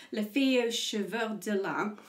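slow, clumsy French accent on the title; bad French accent. Shown as a demonstration. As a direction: read Le Vieux Cheveux de Lin in an awkward French accent. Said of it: "terrible French accent there".

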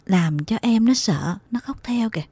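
mild, softened motherly coaxing; gentle soothing. Acted. Mother hushes her crying children, gently soothing. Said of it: "Má tôi dịu giọng vỗ về".

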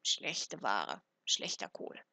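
very low, creaky mutter; grumbling crone. A narrator's reading. Old woman inspecting cabbages, low crone grumble. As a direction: drop far down into a croaky old hag's grumble.

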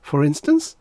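high, prodding question; intrigued, voice lifted; reluctant interest. A narrator's reading. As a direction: ask with piqued curiosity. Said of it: "becoming interested in spite of himself".

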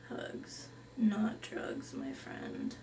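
hushed, soft suggestion; a mellow hippie whispering; dreamy whisper. Acted. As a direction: float the idea in a whisper. Hippie offers a slogan.

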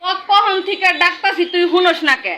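a hint of complaint in Mymensingh speech; Mymensingh dialect. Shown as a demonstration. Complaining someone ignored her calls, in dialect. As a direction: complain he never listens, village style. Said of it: "আঞ্চলিক ভাষায়".

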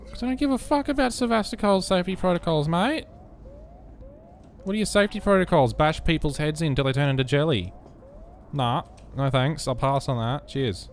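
high-pitched, broad Australian rant; really Australian when scared. Real, not acted. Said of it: "I get really Australian when I'm scared".

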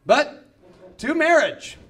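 builds to a loud, very slow finish; slow building punchline. Retold or imitated. Objector at the mic revealing his point, slow loud build. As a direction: drag out the last words like a reveal. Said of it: "He goes".

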